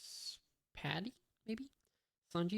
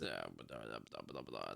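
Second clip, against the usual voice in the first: mumbled filler; 9 dB quieter than usual. Real, not acted. Skipping dialogue with filler.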